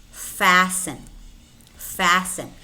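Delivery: Fasten as "fassen"; no T in Fasten, just S; silent T. Shown as a demonstration. Teacher models silent letters for learners, silent T in Fasten. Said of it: "but it's not pronounced".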